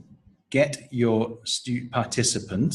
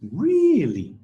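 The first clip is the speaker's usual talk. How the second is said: Really? high and louder, falling at the end; surprised really; 9 semitones higher, 4 dB louder than usual. Shown as a demonstration. Teacher modelling surprise intonation. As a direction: sound genuinely surprised on Really?. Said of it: "Uh, surprise".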